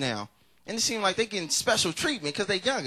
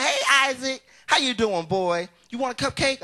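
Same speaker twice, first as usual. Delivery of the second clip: higher, sugary mom; sweet mom voice; 7 semitones higher, 4 dB louder, slower than usual. Retold or imitated. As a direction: sweeten it for a guest. Mama sweet to friend.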